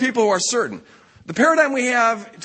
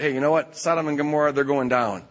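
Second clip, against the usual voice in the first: God confiding; 6 semitones lower than usual. Acted.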